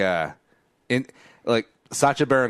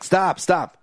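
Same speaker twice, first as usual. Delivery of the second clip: raised, louder imitation of begging to stop; mock urgent plea; 10 semitones higher, 5 dB louder than usual. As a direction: act out a higher-pitched call to halt. Acted plea in retold restaurant joke.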